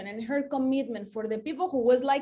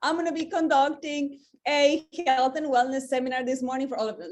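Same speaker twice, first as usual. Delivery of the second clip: much higher, sing-song fake presenter; mock cheery greeting; 3 semitones higher than usual. Mocking the seminar pitch she refused to give, high sing-song. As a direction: parody a chirpy seminar host. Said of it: "Am I gonna go say".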